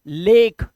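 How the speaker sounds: "लेक" with a long ay vowel; "लेक" said clearly on a long e; long e in lake. Shown as a demonstration. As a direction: stretch the ए in "लेक". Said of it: "ऐसे ही ए का".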